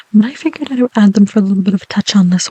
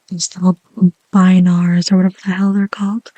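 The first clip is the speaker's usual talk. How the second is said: whisper. Real, not acted. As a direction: breathe the words gently. ASMR whisper.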